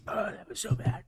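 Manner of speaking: breathless high gasp after spice; mouth burning from spicy food. Real, not acted.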